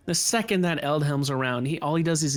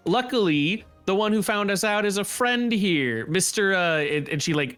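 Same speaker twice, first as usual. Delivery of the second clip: a slightly raised, hard-edged street tough; tough Lyra; 3 semitones higher than usual. Acted. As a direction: lay down the law with the bat. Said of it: "And Lyra, uh, goes".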